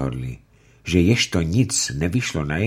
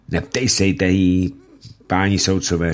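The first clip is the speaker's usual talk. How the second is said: urgent plea; 3 semitones higher, 4 dB louder than usual. Acted. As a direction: hurry to protect her. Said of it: "řekl Ulenšpígl".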